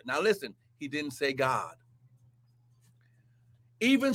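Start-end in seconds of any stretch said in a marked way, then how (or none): 0.1-1.8 much softer and lower "he didn't say God", "God" falling; quiet, pointed aside; hushed point. Real, not acted. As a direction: drop to a near whisper to drive it home. Preacher drops to hushed point.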